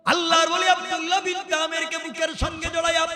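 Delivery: high, loud chanted sermon; slow, ringing high preacher's chant; full-force preaching. Acted. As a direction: hold one high note and belt out the narration.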